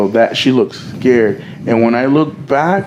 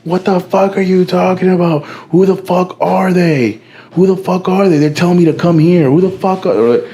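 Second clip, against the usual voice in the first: higher-pitched imitation of a woman protesting; retold "how dare you" in a raised pitch; imitated indignant protest; 6 semitones higher than usual. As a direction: act out her bewildered objection, pitched up. Retold quarrel, woman protests accusation.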